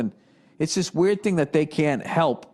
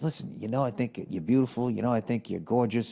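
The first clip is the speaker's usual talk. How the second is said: gentle let-down; 4 semitones lower, 5 dB quieter than usual. Retold or imitated. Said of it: "How do you just".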